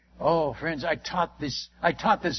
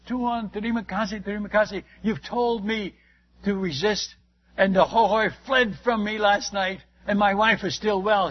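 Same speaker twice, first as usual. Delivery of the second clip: mock-excited, a bit louder at the end; retold excitement; 2 semitones higher, 4 dB louder than usual. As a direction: mimic the overjoyed convert, lightly. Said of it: "And he was so excited".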